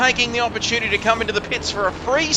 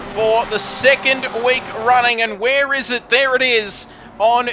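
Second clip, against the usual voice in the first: motorsport commentator; 3 semitones higher than usual. Acted. Play-by-play commentary.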